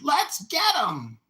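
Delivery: high, drawn-out battle cry; rallying yell. Retold or imitated. Attackers calling each other into the fight, rallying shout. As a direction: imitate a gang yelling to attack, slow and loud.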